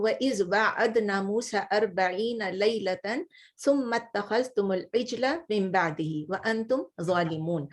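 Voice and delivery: measured, chanted verse recitation; Quran recitation. Acted. Teacher reciting a Quran verse to her class, in a measured chant.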